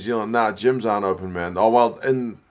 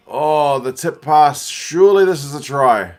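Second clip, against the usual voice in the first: excited; 4 semitones higher, 7 dB louder than usual. Real, not acted. Watching near-try live.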